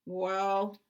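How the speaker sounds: loud troll send-off; booming dismissal; gruff troll dismissal. A narrator's reading. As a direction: shoo them off loudly as a troll. Troll dismisses little goat.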